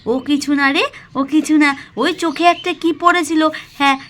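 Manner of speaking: a hint of a caring mother hiding tears; lightly voiced gentle mother. Mala, to her daughter Pakhi, tenderly hiding her tears. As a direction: soothe the child, brush off the crying.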